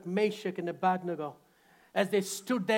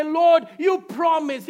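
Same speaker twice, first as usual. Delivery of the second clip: higher, pleading complaint; mock complaint to God; 8 semitones higher, 10 dB louder, slower than usual. A believer complaining to God, mildly pleading. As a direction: whine at God a little. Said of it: "that we say".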